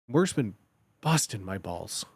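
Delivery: low, soft, sincere complaint; earnest weary grumble. Shown as a demonstration. Answering a friend about work, earnest grumble. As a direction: drop low and quiet, as if worn down. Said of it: "So you could be earnest".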